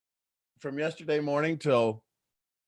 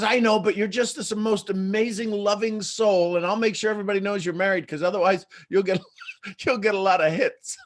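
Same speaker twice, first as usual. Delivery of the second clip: lightly imitated high-energy gusher, pitched up; Amy; 6 semitones higher, 3 dB louder than usual. Friend coaxing a married man onto her singles call, lightly imitated gushing. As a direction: gush persuasively in a higher voice, laughter breaking in. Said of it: "this high energy ball of just joy".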